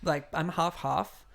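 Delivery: high, put-on voice of a chatty friend; Zandra. Friend explaining where she is from, mocking high voice. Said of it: "and she's like".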